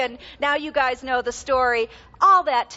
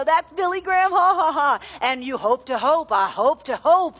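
lightly voiced preacher, with a little laugh; half-hearted impression of a revival preacher; Billy Graham imitation; 2 semitones higher, 3 dB louder than usual. Mother imitating husband mimicking Billy Graham, a lightly voiced preacher. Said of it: "This is my imitation of Skip doing Billy Graham".

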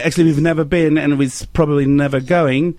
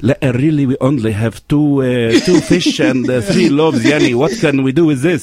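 mock a disciple in a Middle Eastern accent; 3 semitones lower than usual. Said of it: "It should sound more like".

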